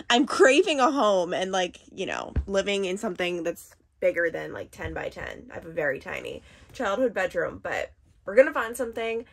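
talking with a retainer in; speech slurred by a retainer; wearing a retainer. Real, not acted. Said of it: "I have my retainer in".

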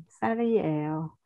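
"Sal이에요" with an open e sound; "è", not "về". Shown as a demonstration. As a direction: say the 에 in "Sal이에요" as plain è. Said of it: "Không phải là về mà là è". (đọc "Sal이에요" với âm è)

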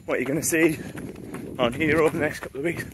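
talking mid-run, a little breathless; while running. Real, not acted. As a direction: speak while jogging along. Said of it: "enjoy the run".

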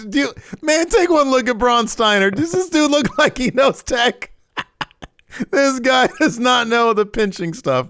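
high, laughing jab at a buddy; high-pitched giggling roast of Braun; laughing mockery. Real, not acted. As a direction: cackle through the teasing.

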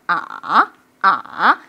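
"아" going low then springing up; dipping tone. Shown as a demonstration. Teacher drilling sit and stand, dipping tone. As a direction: dip "아" down and stand it back up. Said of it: "삼성은 앉았다 일어나".

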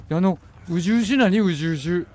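disgusted imitation of a gurgle; imitating gurgling. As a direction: mimic a wet gurgling creature noise. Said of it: "獣みたいな声するんだけど".

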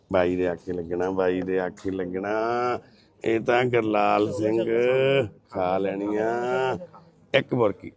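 very low, soft, drawn-out singsong; soothing coaxing. Real, not acted. Coaxing Gurlal to obey his brother and eat, soothingly. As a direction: lull him gently into agreeing.

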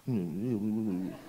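low, quiet mock pondering hums. Sales manager studying paperwork, pondering hum. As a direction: hum low, imitating someone mulling it over.

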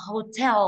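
hotel with the weight on TEL; light ho, long strong TEL in hotel; stress on second syllable. Shown as a demonstration. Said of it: "nó là từ tell cơ".

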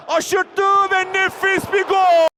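screaming football commentator. Real, not acted. Goal call in live commentary.

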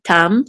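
"tam" said as the accented syllable; stress on TAM. Shown as a demonstration. Teacher showing where the accent falls, "tam" stressed. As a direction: land firmly on "tam". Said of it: "the accent is on tam".

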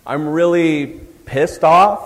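mock pissed off. Shown as a demonstration. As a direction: drag out "I'm really pissed off" in fake annoyance. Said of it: "use words that are pretty specific".

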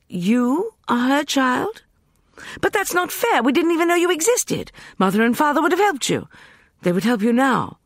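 high, urgent plea; pleading Nefret. A narrator's reading. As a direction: rush to reassure her.

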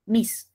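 "mis" set apart as the stressed syllable; stressed syllable isolated. Shown as a demonstration. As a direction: pick out "mis" on its own. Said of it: "me concentro en la mayor fuerza de voz".

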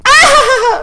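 chillido muy agudo que se apaga; alarido agudo. Pretend. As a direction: remata el canto con un alarido. Alarido tras cantar. (grito agudo y prolongado)

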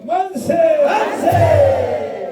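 loud high cheer, each one shouted; rally cheer shout. Real, not acted. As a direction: lead a crowd cheer at full voice. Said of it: "다시요".

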